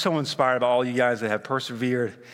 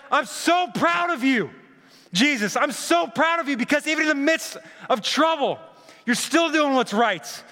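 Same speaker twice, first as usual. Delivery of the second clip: proud father; 11 semitones higher than usual. Acted. God calling out to his son, high and beaming pride. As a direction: lift it up like a father calling from heaven.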